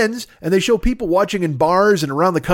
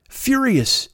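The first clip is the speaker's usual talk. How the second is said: whispered; 7 semitones higher than usual. Acted. A whispered mock-dramatic word.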